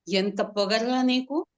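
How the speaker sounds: loud, indignant scolding; angry retort. Acted. Dying man wants to scold servant, angry loud retort. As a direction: snap at the servant in anger. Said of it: "అందామనుకున్నాం".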